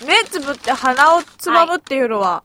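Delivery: 鼻をつまんだこもり声; 鼻をつまんで話す; 鼻をつまんだ声. Real, not acted. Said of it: "なんでこんな声になるのね". (目をつぶり鼻をつまんだまま話す鼻声)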